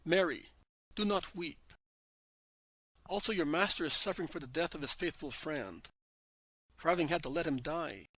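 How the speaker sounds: calling out firmly; loud voice. Acted. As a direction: speak up so all can hear. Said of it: "says in a loud voice".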